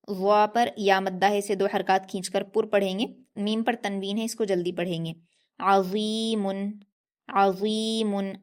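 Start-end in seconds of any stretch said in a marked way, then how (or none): 5.6-8.3 अज़ीमुन slowly, heavy emphatic zaa, throaty ain; Arabic ẓā drawn slow and heavy. Shown as a demonstration. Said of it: "वा के मखरज को ... याद रखना है".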